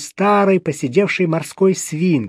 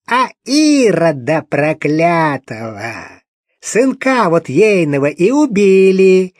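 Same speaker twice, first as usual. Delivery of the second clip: slow, louder lament to the whole flat; loud wail; 3 semitones higher, 5 dB louder than usual. Acted. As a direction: cry it out for the whole flat to hear. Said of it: "Громко на всю квартиру возопила". (громко возопить на всю квартиру)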